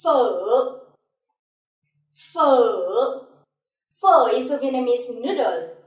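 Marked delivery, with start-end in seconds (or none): 0.0-3.3 "Phở" sliding down, then curling up; falling-rising tone. Shown as a demonstration. Teacher giving a noodle word as example, falling and rising tone. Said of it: "other example for this tone".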